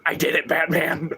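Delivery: sly, proud Joker confession. Acted. Streamer voicing Joker to chat, a smug Joker confession. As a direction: deliver it like a clown's punchline. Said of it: "in the Joker voice".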